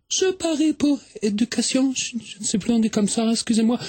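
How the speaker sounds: put-on Swedish-accented French with broken grammar; a visitor struggling with French, in a light Swedish accent. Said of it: "mais quel joli accent!".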